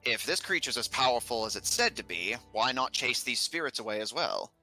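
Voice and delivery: ponderous scholarly figure, weighing each thought; musing learned character. Acted. Character answering Mister Glotha's observation, musing aloud. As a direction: muse aloud in character, with pauses. Game master voices a character.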